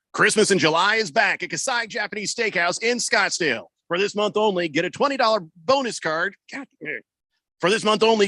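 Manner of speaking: upbeat radio commercial read. Acted. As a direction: sell it like a radio spot. Reading a radio ad.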